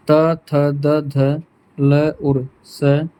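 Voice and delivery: त थ द ध ल स said very slowly, tongue at the teeth; teacher spelling out the dental letters; slow dental demo. Shown as a demonstration. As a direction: drag out each dental letter. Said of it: "दांत से जिनका उच्चारण होता है".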